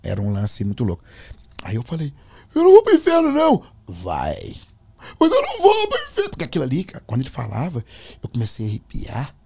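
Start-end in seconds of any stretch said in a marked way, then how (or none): 2.5-3.6 high, loud protest; shouted high-pitched defiance; retold alarmed refusal. Retold panicked refusal to demonic voice. 3.9-4.6 low, soft command; imitated demonic menace; changed, possessed voice. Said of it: "mudou a voz". 5.2-6.3 very high, loud protest; high-pitched yelled refusal; retold alarmed refusal.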